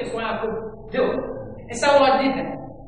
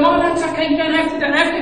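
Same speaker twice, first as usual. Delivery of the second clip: urgent reassurance; 5 semitones higher, 5 dB louder, faster than usual. Retold or imitated. Wife hurriedly stopping the guests.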